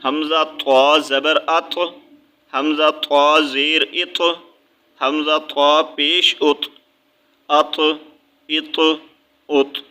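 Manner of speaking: ات with the ط pressed and bounced; qalqala bounce. Shown as a demonstration. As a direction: press the ط of ات so it echoes. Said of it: "دبا کے پڑھنا ہے". (ات میں ط کو دبا کر قلقلہ کے ساتھ)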